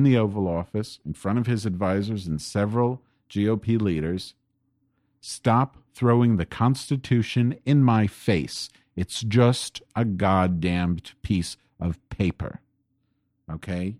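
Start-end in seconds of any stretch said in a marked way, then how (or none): 5.2-12.6 slow, weighty reading of the quote, every word landed; slow emphatic repeat. Shown as a demonstration. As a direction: read it slowly so nobody misses it. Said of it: "I'm gonna repeat that".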